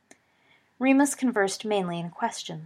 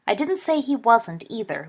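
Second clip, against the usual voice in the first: tart; 3 semitones higher than usual. Acted. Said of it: "Lily said tartly".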